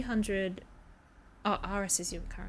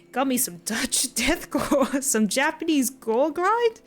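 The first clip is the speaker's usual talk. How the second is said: American accent; 4 dB louder than usual. Shown as a demonstration. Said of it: "Should I try this in, like, an American accent?".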